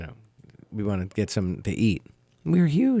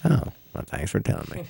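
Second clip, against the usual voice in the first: bored bus driver; 5 semitones higher than usual. Retold or imitated. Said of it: "Talks like this".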